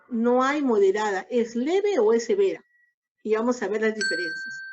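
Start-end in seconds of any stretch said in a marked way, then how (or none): 0.1-2.6 firm stress on "hay", "leve" and "severa" pressed. Shown as a demonstration. Lecturer reminding students, firmly stressing "hay" and "leve". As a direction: insist on "no hay moderada", hitting "hay" hard. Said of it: "Recordemos bien".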